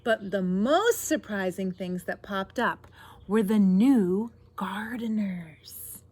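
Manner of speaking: projected read-aloud, slowing to the reveal; picture-book narration. A narrator's reading. Reader reveals the new gardeners to children, drawn-out storytelling. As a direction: draw out the surprise for young listeners.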